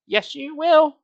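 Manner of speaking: put-on high loud child's shriek; mock scream. Girl screaming at boy by the tree, high shriek. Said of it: "Mona screamed".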